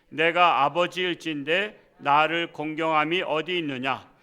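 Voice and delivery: slow, solemn reading aloud of scripture. Acted. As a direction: read the verse out slowly with weight.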